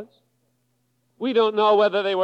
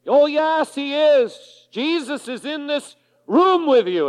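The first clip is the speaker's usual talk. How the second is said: higher, louder, emphatic father's voice; reassuring father; 6 semitones higher, 3 dB louder than usual. Retold or imitated. Father reassuring his frightened son, emphatic and higher. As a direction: insist gently to a scared child.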